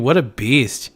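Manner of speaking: ordinary talk, nothing marked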